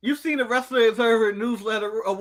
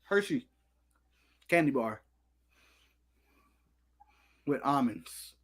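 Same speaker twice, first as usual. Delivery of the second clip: savoring voice; 8 semitones lower, 6 dB quieter than usual. Real, not acted. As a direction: say it like a luxury ad. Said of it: "why are you saying it like that?".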